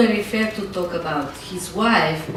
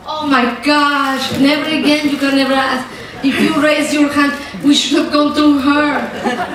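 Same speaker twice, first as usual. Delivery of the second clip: laughing; 4 semitones higher than usual. Real, not acted. Laughing exclamation about asking favors.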